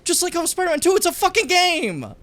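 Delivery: loud high furious ranting; furious shout. Real, not acted. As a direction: scream it in real outrage. Furious rant about Spider-Man critics.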